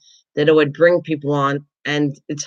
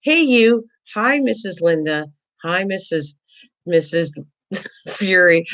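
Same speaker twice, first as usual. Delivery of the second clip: high, sing-song mock greetings; mimicking chat greetings; 3 semitones higher than usual. Host imitating the chat greeting everyone else, sing-song. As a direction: gush at the others, shrug at the host. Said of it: "This is what it sounds like to me".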